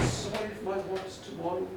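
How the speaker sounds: subdued, heartfelt apology and thanks; tender praise. Acted. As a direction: speak gently to a lost wife. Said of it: "he praised her more than ever".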